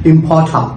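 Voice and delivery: "ইম্পর্টার" ending in an open ah, no r; British silent r. Shown as a demonstration. Teacher repeats the British form for learners, silent final r. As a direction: let "ইম্পর্টার" finish without its r. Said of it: "আমরা বলছি ইম্পর্টার".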